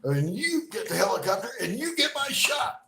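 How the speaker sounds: high, loud barked order; commanding shout. Retold or imitated. Burned man ordering a bystander to fetch the doctor, loud shout. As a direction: point at him and command.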